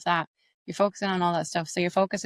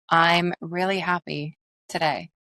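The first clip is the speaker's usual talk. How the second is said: slower, softer take on the line; the softer version of I'm really happy today; softer accent; slower than usual. Shown as a demonstration. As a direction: let it melt out slowly and softer. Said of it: "It's softer".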